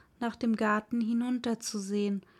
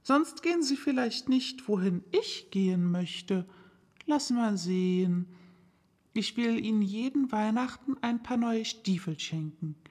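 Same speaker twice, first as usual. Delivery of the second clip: Alice fussing over her poor feet; fretful little girl. Acted. Alice talking to her far-off feet, worried and fussing.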